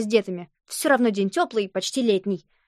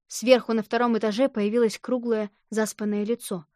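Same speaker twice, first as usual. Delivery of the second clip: ordinary delivery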